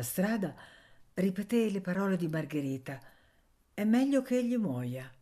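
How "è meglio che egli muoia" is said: higher, lightly voiced girl's words; mild girl's echo. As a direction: repeat her shocking phrase. Anania repeats her words. (eco della bambina, voce più alta)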